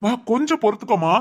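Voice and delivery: choked up, pleading with his mother to hold on; tearful comfort. Acted. Son begging his aching mother to bear it, tearful. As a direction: near tears, soothing her.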